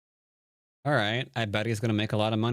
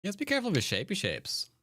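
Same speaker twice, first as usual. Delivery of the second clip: 1 sing-song tease; 11 semitones higher, faster than usual. Acted. Teasing sing-song to viewer.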